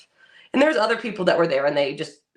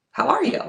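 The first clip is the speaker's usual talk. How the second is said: "how ARE you" much higher, rising; questioning rise; 8 semitones higher, 4 dB louder than usual. Shown as a demonstration. Friend showing another reading of a text, high questioning rise. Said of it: "So many different ways".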